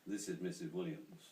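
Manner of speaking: lightly imitated Irish accent; a formal introduction with a touch of Irish. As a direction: put on a slight Irish accent. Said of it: "in an Irish accent".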